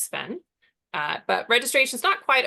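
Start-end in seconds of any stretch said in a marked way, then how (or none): 0.0-0.4 Sven said as one syllable; read as a word. Shown as a demonstration. Guessing the workshop tool's name, Sven as one word. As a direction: say Sven as a name, not spelled out. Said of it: "which I hope they pronounce".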